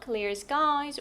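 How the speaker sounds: "Clear skies" slowly, going up on "skies"; rising list intonation. Shown as a demonstration. Teacher models the next list item, rising on "skies". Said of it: "올려주시고요".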